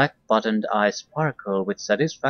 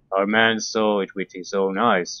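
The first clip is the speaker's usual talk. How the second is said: plain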